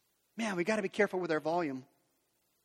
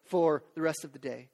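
higher, louder mock wife's plea; imitated wife; 3 semitones higher, 5 dB louder than usual. Preacher voices a wife explaining dinner to her husband, high and insistent. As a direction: act out an exasperated wife, pitched up, trailing down at the end.

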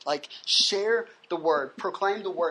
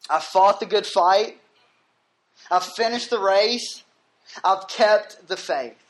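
louder, each phrase set apart; emphatic proclamation; 4 dB louder than usual. Acted. Preacher proclaims Paul's last words to the congregation, emphatic. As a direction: declare each victory with force.

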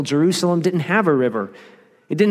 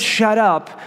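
sharp rebuke; 6 semitones higher than usual. Acted. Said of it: "So he says".

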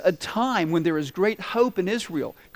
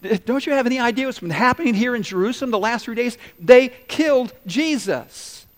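higher and louder, disbelieving; can't believe he hasn't heard; incredulous disciples; 6 semitones higher, 5 dB louder than usual. Retold or imitated. Disciples telling the stranger Jesus was killed, incredulous. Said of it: "And they go".

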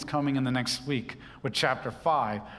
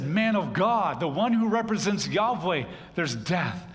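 mildly dramatized desperate appeal; desperate cry; 3 semitones higher than usual. Acted. Poisoned men appeal to the man of God, crying out. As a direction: raise the pitch as if pleading with a prophet. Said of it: "they're crying out to God in desperation".

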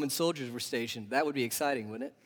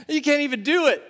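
laughing disbelief; 9 semitones higher, 5 dB louder, faster than usual. Real, not acted. Laughing at the image.

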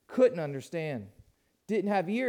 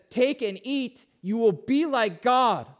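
a touch of the sly serpent, raised; lying serpent; 4 semitones higher, 6 dB louder than usual. Acted. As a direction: tempt them like the lying serpent. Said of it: "lying serpent says".

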